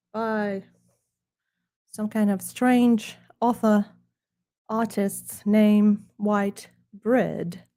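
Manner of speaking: lightly put-on snooty British accent. Presenting his book to viewers in a hammed-up snooty British accent. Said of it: "British accent to deliver".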